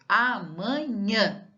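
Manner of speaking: amanhã slowly in syllables, a-ma-NHÃ; stress on NHÃ. Shown as a demonstration. Teacher giving an oxytone example, slow a-ma-NHÃ. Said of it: "Quando ela é a última, por exemplo".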